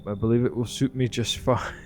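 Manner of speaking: smug nun. Pretend. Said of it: "Such a smug nun".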